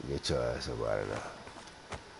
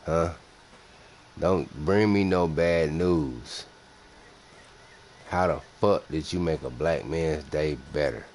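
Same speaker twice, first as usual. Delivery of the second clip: impatient demand; 3 semitones higher, 7 dB louder than usual. Pretend. Demanding answers from chat.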